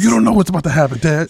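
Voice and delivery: high, loud mock-ominous warning; dramatic teasing. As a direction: ham up an ominous threat to dad. Joking voicing of the speaker to dad.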